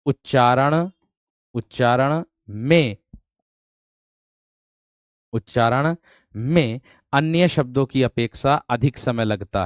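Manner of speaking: every phrase drawn out with long pauses; slow dictation. Shown as a demonstration. Teacher dictating the definition slowly. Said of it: "dictates definition slowly".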